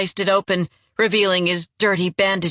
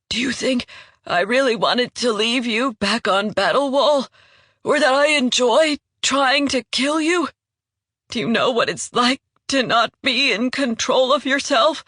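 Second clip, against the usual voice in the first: higher, pained voice of a man losing control; anguished wounded traitor; 4 semitones higher than usual. Acted. Wounded traitor confessing his lost control to Jandara, higher and pained. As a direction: pour out the anguish, pitched up.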